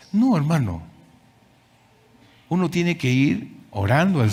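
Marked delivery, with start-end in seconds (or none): 0.1-0.8 firm no. Acted. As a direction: refuse outright. Firm refusal in counseling. (negándose con firmeza, más fuerte)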